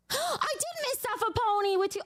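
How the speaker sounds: high-pitched delighted squeal; gasp, then squeal it out; excited gasp. Real, not acted. Streamer spots a missed cute donation, delighted squeal.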